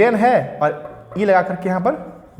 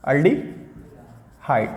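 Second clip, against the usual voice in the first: slow stretched; 4 semitones lower, 5 dB quieter, much slower than usual. Shown as a demonstration. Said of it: "ये क्या है?".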